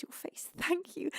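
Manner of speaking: soft breathy whisper; hushed whispered blessing. Real, not acted. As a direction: whisper the thanks close and intimate. Whispered thanks.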